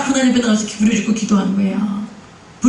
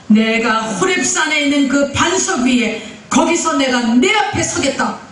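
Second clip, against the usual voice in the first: slow, slightly raised voice of divine command; God; 4 semitones higher than usual. Retold or imitated. The Lord speaks to Moses at Horeb, slow proclamation. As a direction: proclaim it slowly, as a promise from on high. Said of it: "그러면서 뭐라 그래요?".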